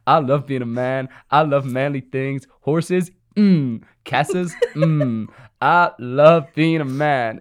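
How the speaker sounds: hammed-up macho relish, loud hums; boastful Ken. Ken discovering the patriarchy, hammed-up boasting. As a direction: savour each manly thing, stretching the last line slow and loud. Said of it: "He's like".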